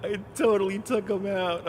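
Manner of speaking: high, laughing "no" of disbelief; excited outcry. Real, not acted. Streamer who just took him out, high laughing outcry. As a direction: cry out high, breaking into laughter. Crash in a driving game.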